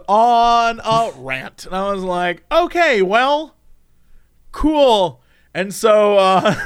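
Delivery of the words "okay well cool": slow, high, hesitant reply; awkward acceptance. Acted. Reacting to a stranger's rant, awkward drawn-out acceptance. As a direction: stretch it out, at a loss.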